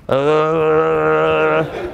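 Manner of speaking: long, low droning "uh"; mock energy hum. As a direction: drone like a vortex buzzing through you. Mimes feeling the energy vortex.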